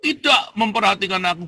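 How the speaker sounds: high, loud wail of complaint to heaven; desperate cry to God. Retold or imitated. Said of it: "Kamu teriak".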